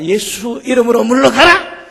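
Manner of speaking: fervent prayer shout; commanding shout. Retold or imitated. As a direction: cast him out in Jesus' name. Rebuking Satan in prayer.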